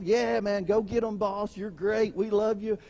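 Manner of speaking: butter up the boss falsely; fake cheery coworker. A two-faced worker cheering the boss, mock cheerful. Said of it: "looking like they're all cheery".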